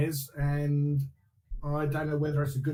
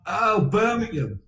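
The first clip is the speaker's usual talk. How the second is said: Brummie accent; 4 semitones higher, 5 dB louder than usual. Shown as a demonstration. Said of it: "what's the one that they all have in Peaky Blinders".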